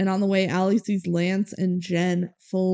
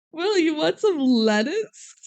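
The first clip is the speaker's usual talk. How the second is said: a hint of a mom offering food, pitched higher; mock a mom's offer in a lightly raised voice; lightly voiced mom; 6 semitones higher than usual. Mom offers Will some lettuce, lightly mimicked. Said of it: "She goes".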